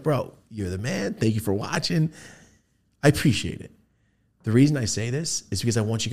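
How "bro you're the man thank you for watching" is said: calm thank-you. Retold or imitated. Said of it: "I do my whole, like".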